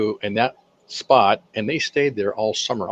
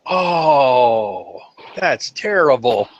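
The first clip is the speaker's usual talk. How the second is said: slow, hammed-up pity; drawn-out mock-sad oh that's terrible; mock sympathy; much slower than usual. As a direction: pour on fake sympathy.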